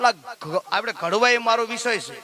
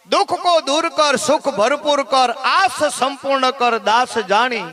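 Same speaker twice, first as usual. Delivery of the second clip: slow recitation; 3 semitones higher, slower than usual. Shown as a demonstration. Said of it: "એવી માને પ્રાર્થના કરી".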